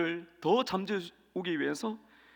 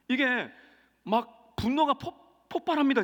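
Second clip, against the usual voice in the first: rising higher and louder to a burst; building outburst; 7 semitones higher, 5 dB louder, slower than usual. Real, not acted. Preacher acting out anger boiling over, climbing to a loud burst. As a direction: let it explode, slowing on 폭-.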